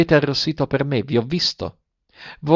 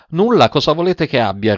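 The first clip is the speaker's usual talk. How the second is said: harsh reply; 5 semitones higher than usual. Acted. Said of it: "rispose egli con durezza".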